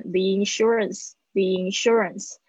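"the insurance" run together as "thee-insurance"; teacher's linked "thee-insurance", repeated; linked pronunciation. Shown as a demonstration. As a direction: join "the" straight into "insurance". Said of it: "一起念".

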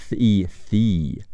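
tongue between teeth, air only, then long E; voiceless "th" joined to a long "ee". Shown as a demonstration. Teacher demonstrating the th of theme, voiceless "th" plus long "ee". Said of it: "咬舌音".

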